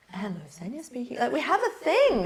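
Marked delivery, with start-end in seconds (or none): 0.1-1.2 a hint of professional phone manner. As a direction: answer lightly as if on a work call. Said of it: "We have a phone voice".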